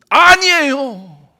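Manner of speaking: high, loud, slow cry of denial; panicked denial. Acted. Peter denies Jesus in panic, high and loud. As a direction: blurt it out in panic.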